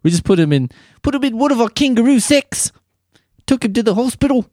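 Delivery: high-pitched, hammed-up Australian accent; mock the newscast in a high Australian accent. Mimics the Australian news clip.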